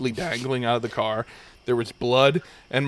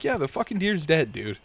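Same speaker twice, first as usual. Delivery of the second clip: higher-pitched, insistent comeback; exasperated retort; 4 semitones higher than usual. Retold or imitated. Driver insisting to the trooper about the deer, exasperated. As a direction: act out fed-up insistence.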